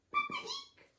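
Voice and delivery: very high squeaky pip-a-eek; mouse squeak. Acted. Mouse squeaking at the hole's edge.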